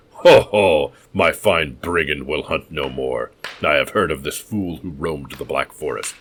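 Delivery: loud, slow, gloating mad host; gloating madman. Acted. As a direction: crow over the corpse like a maniac.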